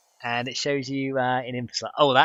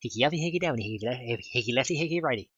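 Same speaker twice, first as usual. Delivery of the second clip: silly singsong; 3 semitones higher than usual. Retold or imitated. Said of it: "I was like".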